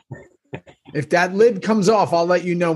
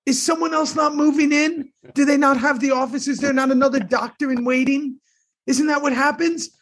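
high, insistent Sal nagging; Salty Sal; 8 semitones higher than usual. Pretend. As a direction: rattle off complaints like a crank. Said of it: "Sal and Harry are out".

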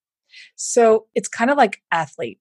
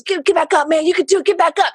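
higher, louder bro cheering a buddy on; mock pep talk; 11 semitones higher, 4 dB louder than usual. Imitating men pushing a friend who failed, mock pep talk. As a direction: hype him up like a gym buddy. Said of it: "men are sometimes like".

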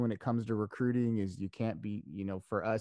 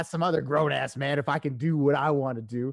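higher-pitched mock indignation; joking mad; 5 semitones higher, 4 dB louder than usual. Husband refusing to ask another grown man, mock indignant. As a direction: protest with hammed-up wounded pride. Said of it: "now I get mad, and I always joke".

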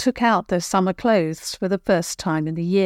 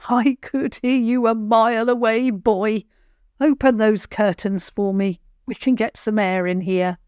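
grumpy old granny, voiced higher; irritated granny; 4 semitones higher than usual. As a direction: snap at the boy like a cross grandmother. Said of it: "she sounded irritated".

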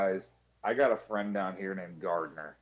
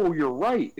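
high, loud fake fluster; mock embarrassed coworker; 6 semitones higher, 6 dB louder than usual. Imitating friend dropping a pencil, overdone. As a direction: gush over dropping a pencil. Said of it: "and he".

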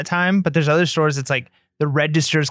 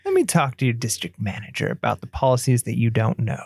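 snide mock threat; 5 semitones lower, 3 dB quieter than usual. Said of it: "doesn't sound like you're doing it nice".

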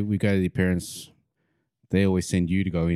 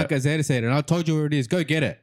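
higher-pitched scolding mum; mum going Super Saiyan; 7 semitones higher than usual. Retold or imitated. Mum sending her kid back into the shop, scolding. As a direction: imitate an exasperated mother giving orders. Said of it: "she went, like, Super Saiyan on me".

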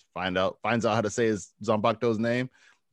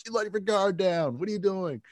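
hammed-up dad voice; 10 semitones higher than usual. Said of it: "He goes".

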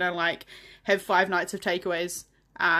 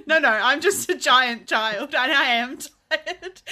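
mock whiny admission; 4 semitones higher, 5 dB louder, slower than usual. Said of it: "It's like".

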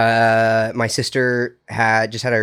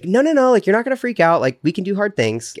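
imitating sister; 9 semitones higher than usual. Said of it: "my sister said".

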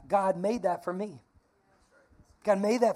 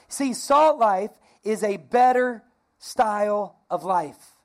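slow emphatic; 5 dB louder, slower than usual. Shown as a demonstration. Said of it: "Say it with me".

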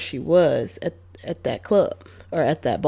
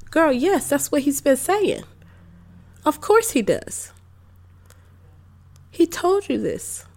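exasperated rant; 5 semitones higher than usual. Real, not acted. Ranting at the character.

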